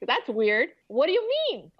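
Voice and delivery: baffled, jumping high on the question; retold bewilderment. Student recalling a baffling workshop, puzzled and rising high. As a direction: pitch the question way up in puzzled disbelief. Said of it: "I was, like, in shock".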